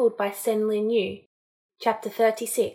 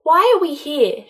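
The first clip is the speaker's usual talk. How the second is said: wobbly demand; 7 semitones higher, 8 dB louder than usual. A narrator's reading. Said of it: "she demanded, her voice wobbling".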